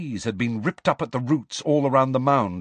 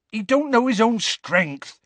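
earnest; 12 semitones higher, 4 dB louder than usual. A narrator's reading. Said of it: "said Hagrid earnestly".

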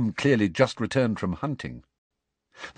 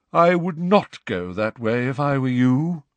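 raised ghost voice warns; ghostly warning; 5 semitones higher, 5 dB louder than usual. A narrator's reading. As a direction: call out a polite warning. Ghost Nick warns Harry.

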